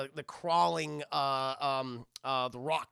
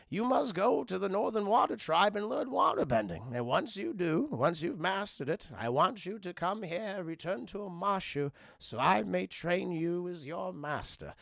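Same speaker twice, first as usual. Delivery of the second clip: serious, measured mentor voice; Bumi. Retold or imitated. Bumi sends Aang off to train, solemn mentor tone. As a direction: instruct gravely as an old master. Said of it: "he gets a little serious".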